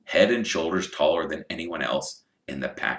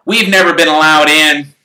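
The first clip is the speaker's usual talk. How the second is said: enviously; 10 semitones higher, 15 dB louder than usual. Acted. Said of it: "said Ron enviously".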